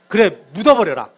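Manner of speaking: fed-up pastor's mock-angry "bury him then"; annoyed pastor. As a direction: snap it at the wailing husband. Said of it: "목사님이 진짜 화가 나".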